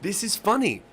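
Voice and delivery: high, breaking into laughter; can't hold back the laugh. Real, not acted. To the audience, laughing while telling of his son. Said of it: "I started fucking laughing".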